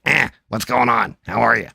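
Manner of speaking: lightly imitating a buddy's phone greeting; Bubba impression. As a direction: put on a touch of your pal's voice. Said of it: "that's why I'm always like".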